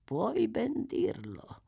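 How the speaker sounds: Fagin. A narrator's reading. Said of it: "mormorò Fagin pensieroso".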